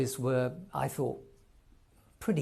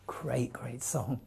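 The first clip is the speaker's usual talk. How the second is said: breathy, hushed, slow admiration; whispered praise; 6 dB quieter, slower than usual. Real, not acted. Host whispering admiration before the song plays, hushed and slow. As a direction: breathe it out in awe. Quiet appreciative aside.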